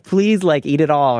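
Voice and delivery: lightly voiced mom coaxing a child; pleading mom. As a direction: gently imitate a mom urging her kid. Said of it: "sounds like something your mom would say".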